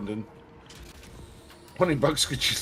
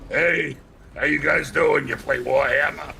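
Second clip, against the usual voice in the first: put-on e-girl voice. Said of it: "I said just like an e-girl".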